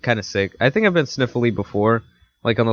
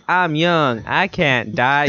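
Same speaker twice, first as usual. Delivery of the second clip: mock lament; 4 semitones higher, much slower than usual. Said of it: "everyone would be saying".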